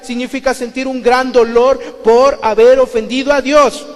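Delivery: loud, high impassioned sermon; fiery preaching. Acted. Preacher driving his point home to the congregation, loud and impassioned. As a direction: preach it hard to the crowd.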